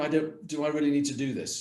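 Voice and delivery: mock arrogant. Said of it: "sort of look".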